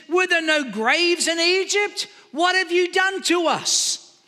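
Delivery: high, slow aggrieved questions; drawn-out mock complaint; complaining. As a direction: mimic a crowd griping at their leader. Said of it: "listen to the complaints".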